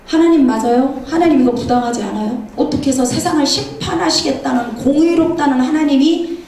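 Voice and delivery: acted indignant protest to God; imitating a startled man's remonstrance; arguing. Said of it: "막 이러고 따지는 거예요".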